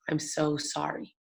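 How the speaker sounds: almost silent, just shaping the words; mouthed apology. Retold or imitated. Administrator mouthing an apology across the room, near silent and slow. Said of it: "she mouths to me".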